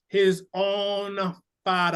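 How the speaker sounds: "father." hit heavy and loud; stress on "father". Retold or imitated. Fan quoting a favorite M'Baku line, heavy weight on "father.". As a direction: lean hard on "father." in a character voice. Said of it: "he was heavy on that father".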